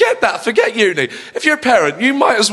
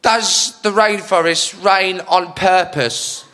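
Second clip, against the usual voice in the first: slow, lower, dim-witted wondering; Joey Essex; 4 semitones lower, slower than usual. Retold or imitated. Comedian quoting a reality star's silly question, slow and dim. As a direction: ask it slowly as an earnest daft question. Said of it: "he's, he said".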